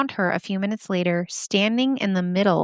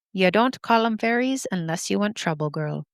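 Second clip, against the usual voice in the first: lightly attempted Irish granny accent. Irish granny warning a girl about fairies, attempted Irish accent. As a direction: have a tentative go at an Irish accent. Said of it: "Is that any better?".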